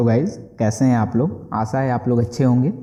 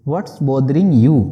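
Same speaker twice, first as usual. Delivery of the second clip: slow and a bit louder, word by word; slow model sentence; 4 dB louder, much slower than usual. Shown as a demonstration. Teacher modelling the English phrase slowly for students. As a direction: lay it out slowly for learners. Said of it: "बोलेंगे".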